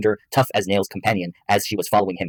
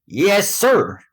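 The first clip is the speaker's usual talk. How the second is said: high, loud, eager reply; high-energy; 12 semitones higher, 5 dB louder than usual. A narrator's reading. Son answering his father, high-energy voice. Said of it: "said in a high-energy voice".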